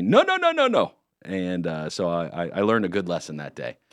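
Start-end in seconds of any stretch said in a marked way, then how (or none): 0.0-0.9 high, loud, many voices shouting "no". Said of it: "everyone shouted at me".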